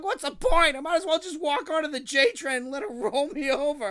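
loud, high, desperate mock rant; despairing rant. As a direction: wail it at the manager, done with life.

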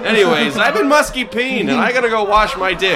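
put-on old borscht belt comic. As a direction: play a cheesy eighties stand-up. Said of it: "a bad eighties comedian".

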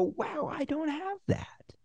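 whispered, high and slow; whispered admission. Shown as a demonstration. Pitcher whispering a deflated admission to the executive. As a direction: breathe it out in a hushed aside. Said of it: "And you go".

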